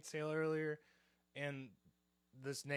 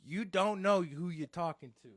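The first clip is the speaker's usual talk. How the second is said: louder, emphatic mock-mobster warning; goomba mode; 3 semitones higher, 6 dB louder than usual. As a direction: deliver it like a self-important wiseguy. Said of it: "I went full Goomba mode".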